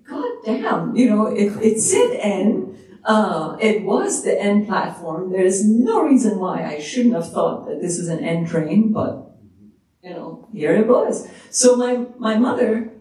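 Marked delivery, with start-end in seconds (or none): 0.1-8.9 panicked thought. Retold or imitated. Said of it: "So I'm thinking".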